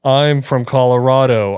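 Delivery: slow, drawn-out Colorado accent; unhurried Colorado impression. Shown as a demonstration. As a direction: stretch it out in a mock Colorado accent. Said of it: "Give me Colorado".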